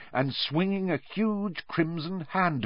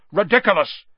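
loud, raised incantation; shout; 7 semitones higher, 6 dB louder, faster than usual. A narrator's reading. Pupil casting at the wailing banshee, shouted. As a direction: shout out the spell. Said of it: "shouted Seamus".

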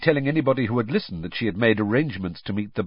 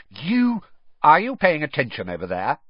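a carrying call, higher and a touch louder; teacher calling out to inattentive boys; 6 semitones higher, 4 dB louder than usual. A narrator's reading. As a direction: call across the paddock to the boys. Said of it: "Professor Grubbly Plank's voice carried over".

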